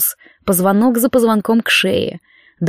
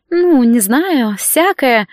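careless; 3 semitones higher, much slower than usual. Acted. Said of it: "сказала она небрежно".

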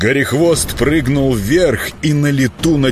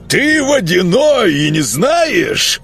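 higher, slow pressing miller; predatory pressing; 8 semitones higher, slower than usual. Acted. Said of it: "хищно наседал мельник".

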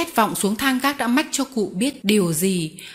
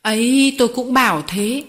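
put-on loud, raised old man's rebuke; angry shout; 3 semitones higher, 5 dB louder than usual. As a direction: shout him down in anger. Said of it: "Cụ Vitali thét".

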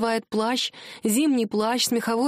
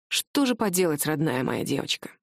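with pain; 6 semitones lower than usual. A narrator's reading. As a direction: let the pain sit under the words. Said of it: "сказал он с болью". (муж говорит жене с болью)

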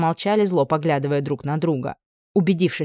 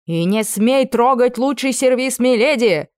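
loud, slow, scolding cook; angry scolding; 7 semitones higher, 5 dB louder, slower than usual. Acted. Cook yelling at the camp cook over the silverware. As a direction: tell him off loudly, hands on hips.

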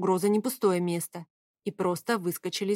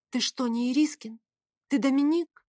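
hysterical laugh; 6 semitones higher than usual. A narrator's reading. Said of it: "Истерично засмеялась я".

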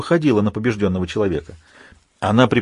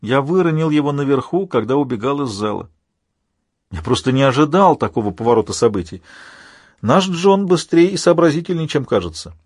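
lightly voiced villain, pitched up in places; taunting villain Alpha; 4 semitones higher than usual. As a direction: explain with insolent relish.

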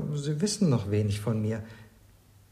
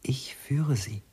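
whisper; slower than usual. Acted. Servant guiding in dark.

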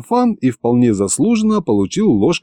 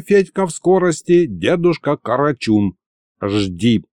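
put-on ominous old sorcerer; 5 semitones higher than usual. Old sorcerer warns young Fedka of death, ominous.

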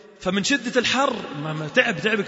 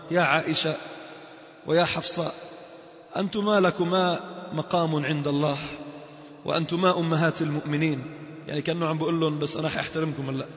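calm admonition. Acted. Umar calmly admonishing his daughters, a gentle grave tone. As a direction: settle into a grave, tender counsel.

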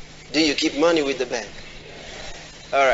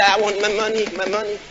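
mock angry demand; 4 semitones higher than usual. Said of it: "banging on the counter".

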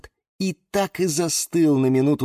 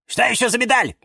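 high, flustered question; agitated; 13 semitones higher, faster than usual. A narrator's reading. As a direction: ask in a sudden flutter. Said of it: "заволновались Фикус и Вениамин и Валентин". (взволнованно, высоким голосом)

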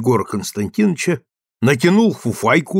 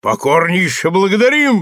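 roaring thanks; 6 semitones higher, 3 dB louder than usual. Acted. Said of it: "взревел Милованов".

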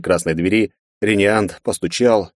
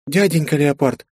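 conspiratorial voice; 8 semitones higher than usual. A narrator's reading. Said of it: "заговорческим голосом сказала эльфийка".

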